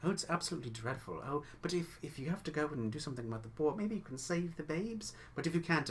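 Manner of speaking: fast, eager chatter that finishes each other's sentences; quick chattering twins. Acted. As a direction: rattle it off like gossipy twins. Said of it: "quick together sentences, finishing each other's sentences".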